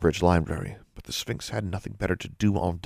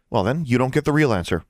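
higher-pitched retort; young challenger, pitched up; defiant girl; 6 semitones higher, 4 dB louder, faster than usual. Acted. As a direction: refuse the beast with spirit. Girl withholds the answer.

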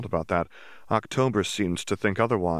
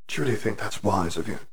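sneering; faster than usual. Acted. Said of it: "Yaxley sneered".

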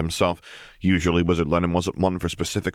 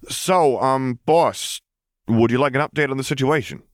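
higher, a bit louder casual vampire underling; easygoing henchman brushing off a nuisance; lightly voiced vampire; 8 semitones higher, 3 dB louder than usual. The vampire asks his boss.

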